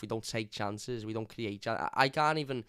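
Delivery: ordinary talk, nothing marked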